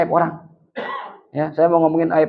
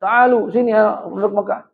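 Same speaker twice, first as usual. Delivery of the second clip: higher-pitched mock calling out to townspeople; imitated shout; 4 semitones higher than usual. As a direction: call the crowd over, a half-strength retold shout. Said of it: "dia teriak". (menirukan seruan memanggil warga, nada tinggi)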